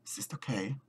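soft reassuring whisper. Real, not acted. Whispering to herself after the voices stop. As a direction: whisper it to calm yourself.

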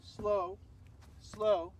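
drawn slows followed by evenly tapped-out quicks; rhythmic slow-slow-quick-quick call; dance timing count. Shown as a demonstration. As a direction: count the steps on the beat. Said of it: "And then repeat".

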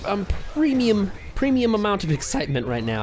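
lightly put-on Eastern European accent. Streamer excited about friend's visit, slipping into Eastern European accent. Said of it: "talking like an Eastern European".

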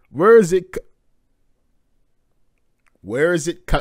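startled cut-off cry; panicked voice. Acted. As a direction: stammer it in alarm. Characters panicking in the manga.

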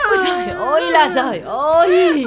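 hammed-up sobbing wail; crying lament. Mother crying at daughter who won't listen. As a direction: sob out the complaint.

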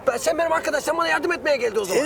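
dropping verb endings like a foreigner; broken Turkish accent. Acted. Dream guard to Mecnun, in broken foreign-accented Turkish. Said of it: "bu aksan nedir abi".

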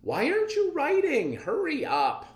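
high, loud impatient order; impatient captain. Acted. Captain scolding the officer to record the capture, loud and high. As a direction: push the officer to hurry.

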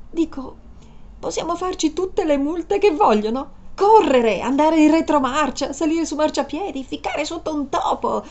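high, eager and giddy; excited. Acted. Woman urging the driver to break every rule, excited. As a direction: pitch the wild idea with glee. Excited about company car.

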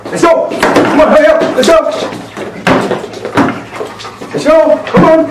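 high, eager dog-talk voice; squeaky praising a dog. Real, not acted. Urging a dog to search.

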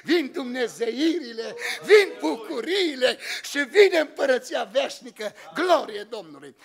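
slow, crying through the words of praise; tearful preaching. Real, not acted. Preaching joy, crying and laughing.

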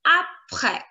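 APRÈS ending on an open eh, no S; silent final S. Shown as a demonstration. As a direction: say APRÈS as "ap-reh", dropping the S. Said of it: "Last letter S silent".

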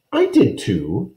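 put-on slow, stubborn little girl; belligerent. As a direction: dig in and insist, slowly. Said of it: "she said belligerently".

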